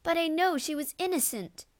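high tearful plea, breaking; weeping. A narrator's reading. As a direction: weep the words out, high. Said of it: "wept Isabeth".

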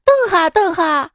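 high, urgent mock shout; foreigner calling after someone. Foreigner chasing a shy local down the road, urgent calling. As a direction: call out in comic pursuit. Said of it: "老外追着我说".

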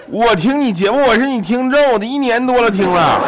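high, loud gushing impression of a listener; excited fan. In-law excitedly tells the host he listens, high and gushing. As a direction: burst out like a thrilled fan.

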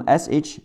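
SH said as one hushing "sh"; sh sound. Shown as a demonstration. Teacher showing learners how S H reads, hushing "sh". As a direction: say "sh" as a single hissed consonant. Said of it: "字母S H读sh".

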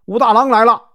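high, loud cry of alarm; startled scream of warning; frightened shout. A narrator's reading. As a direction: yell it out in panic as the intruder arrives. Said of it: "王婆吓得大喊".

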